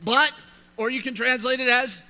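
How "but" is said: "But" hit high and loud; emphatic but. Shown as a demonstration. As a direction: punch the turning word "But". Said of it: "Verse nineteen starts with".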